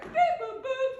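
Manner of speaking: lightly voiced frog news reporter; chirpy puppet anchor on the scene; Kermit. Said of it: "This is Kermit E. Frog here".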